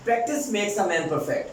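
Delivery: practice makes a man perfect, very slow; slow proverb. Shown as a demonstration. Teacher urges practice, slow and deliberate. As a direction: say each word deliberately. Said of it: "teacher stresses a proverb".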